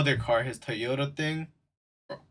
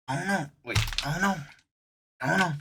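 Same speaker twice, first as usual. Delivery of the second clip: playing clueless; 5 semitones higher, much faster than usual.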